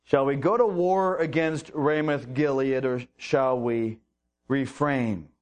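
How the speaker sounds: low, heavy-hearted asking; regretful king. Acted. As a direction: let the king's regret sink the question low. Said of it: "regret in Ahab's voice".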